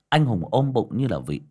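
usual speaking voice

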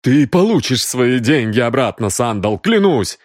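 strained, emphatic promise; pleading promise. Acted. Exposed Хэй promises Сандал his money back, pleading. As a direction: promise desperately, a little strained.

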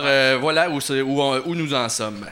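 usual speaking voice

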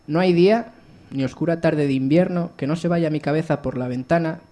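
strong opening, settling as it goes; declaimed poem reading; poetry recital. Acted. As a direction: recite verse, starting firm and easing down line by line. Recites own poem to audience.

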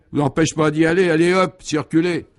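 loud, high, impatient order; surly dismissal. A narrator's reading. Policeman telling a rude passer-by to move along, surly. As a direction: send them packing brusquely.

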